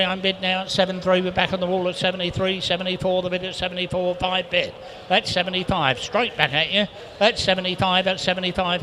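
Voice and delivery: rapid auctioneer patter, steady and driving; auctioneer bid calling. Acted. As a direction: rattle off the bids like a live auctioneer. Auctioneer calling live bids.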